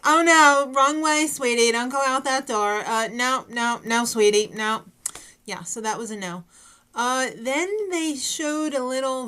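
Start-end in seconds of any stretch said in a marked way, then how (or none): 0.0-4.8 louder mock-sweet scolding; a hammed-up gentle no from the judge; imitating Cara. Judge turning away a contestant, mock sweetie voice. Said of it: "she was like".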